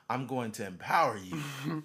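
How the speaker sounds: Oprah impression. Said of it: "I can see Oprah saying".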